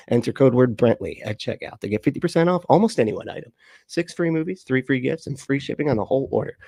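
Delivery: upbeat sponsor pitch; ad read. Acted. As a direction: rattle off the offer like a commercial.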